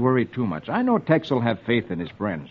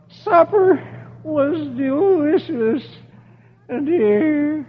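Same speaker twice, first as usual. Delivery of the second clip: higher, very slow dazed groan; groaning Dagwood; 13 semitones higher, much slower than usual. Acted. Knocked-out Dagwood groaning to his wife, slow and dazed. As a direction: mumble half-conscious. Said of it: "Dagwood groans".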